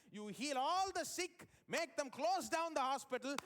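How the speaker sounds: high, emphatic, building hype; showy, excited proclamation; grandiose imagined command. Acted. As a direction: sell the spectacular miracle plan. Imagining God ordering a spectacular show.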